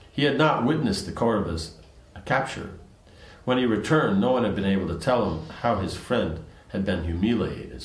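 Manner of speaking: measured storytelling read-aloud; even, recited narration; story narration. A narrator's reading. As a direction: read the scripture tale aloud in phrases.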